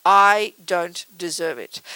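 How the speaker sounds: very slow, drawn-out mock indignation; voicing anger. Anger protesting to whoever caused the hurt, mock indignant. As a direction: speak as anger itself, affronted. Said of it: "think about what anger says".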